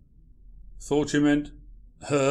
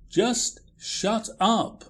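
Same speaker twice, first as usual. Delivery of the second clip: snapped, slow and higher, at the pestering ghost; exasperated shout; 6 semitones higher, much slower than usual. Acted. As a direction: bite off each word, fed up. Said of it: "Don't shout".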